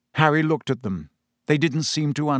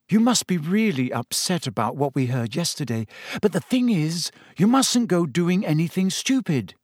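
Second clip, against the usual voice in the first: lightly voiced cautioning friend, rising higher; Hermione's voice; 5 semitones higher than usual. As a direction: gently press a warning on a friend. Story character Hermione cautioning Harry.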